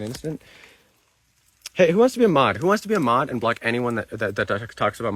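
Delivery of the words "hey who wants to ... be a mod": loud call to the chat. Real, not acted. Streamer calling out to chat for volunteer mods, loud. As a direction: raise the voice to grab the room.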